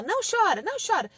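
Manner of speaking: hammed-up scolding parent; impatient parent hushing. Shown as a demonstration. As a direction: nag a crying child to stop. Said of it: "em vez de você falar só".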